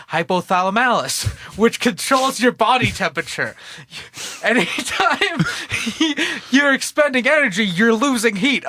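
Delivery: laughing through it. Retold or imitated. Friend laughing through a doctor's line. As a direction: giggles break into the doctor's explanation.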